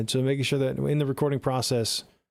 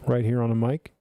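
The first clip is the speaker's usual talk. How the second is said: close-miked proximity effect; close on the mic; 2 semitones lower than usual. Shown as a demonstration. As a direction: demonstrate speaking right up on the microphone. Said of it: "It's the difference of being".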